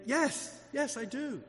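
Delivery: high, soft mock assent; imagined timid reply. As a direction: voice an awkward person's soft yes. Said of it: "And they say".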